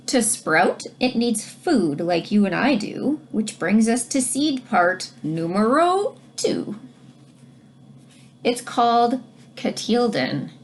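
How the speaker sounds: put-on reading to children. Teacher reads rhyming book aloud.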